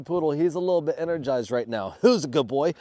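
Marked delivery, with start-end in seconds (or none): 2.0-2.7 talking to a dog. Real, not acted. Praising dog.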